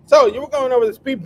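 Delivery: hammed-up traffic cop; mock cop. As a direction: play a goofy cop pulling someone over. Acting cop at traffic stop.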